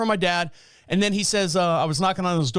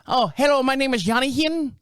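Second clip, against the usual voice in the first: bright higher voice for the friendly installer; installer's greeting; 7 semitones higher than usual. Retold or imitated. The speaker imitating the installer's upbeat hello. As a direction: chirp hello like an eager installer.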